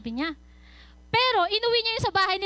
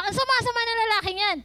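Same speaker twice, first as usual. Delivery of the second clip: angry; 4 semitones higher than usual. Retold or imitated. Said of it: "galit na galit siya".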